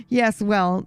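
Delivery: a lightly voiced haughty cat, bored and proud; jaded regal cat. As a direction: talk down to the human like a weary noble cat. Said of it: "the cat mumbles".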